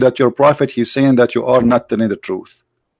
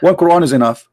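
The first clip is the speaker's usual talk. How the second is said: heated challenge; 4 semitones higher than usual. Real, not acted. Confronting opponent about switched opinion.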